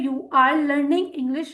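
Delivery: slow, careful English; slow model sentence. Shown as a demonstration. Teacher models the English sentence slowly for students. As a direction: let each word land for learners. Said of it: "teacher models example sentence".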